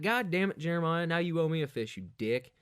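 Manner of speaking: fake-angry scolding a friend; mock annoyed. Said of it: "I was like".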